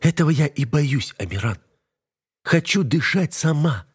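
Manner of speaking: wife begging husband to stop the fight; wife's voice, pleading. A narrator's reading.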